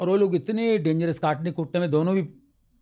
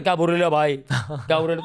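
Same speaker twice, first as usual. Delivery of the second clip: Dharavi street lingo. Retold or imitated. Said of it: "जैसे अभी बोलते रहे".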